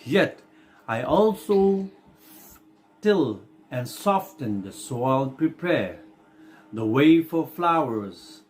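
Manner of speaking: slow, deliberate verse with pauses between phrases; poem reading. Acted. Teacher reading the Earthworm's monologue for the class, slow recitation. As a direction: read the poem out slowly, stretching the key words.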